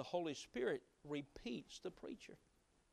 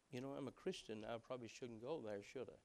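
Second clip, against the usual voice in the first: hesitant murmur; 5 semitones lower, 9 dB quieter, faster than usual. Acted. Man hesitates before the Spirit.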